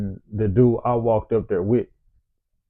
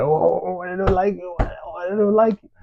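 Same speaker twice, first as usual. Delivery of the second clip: mimicking homeboy; 7 semitones higher than usual. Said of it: "and my homeboy like".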